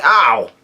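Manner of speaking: drawn-out imitated "ow"; mock cry of pain; Luffy's yelled "ow". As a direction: act out a yelp without real force. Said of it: "Luffy yells out".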